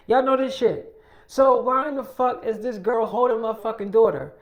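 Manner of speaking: acted-out outrage with punched swearing; mock livestream tirade, mildly heated; indignant rant. Mother addresses followers about her daughter, indignant. Retold angry Instagram Live rant.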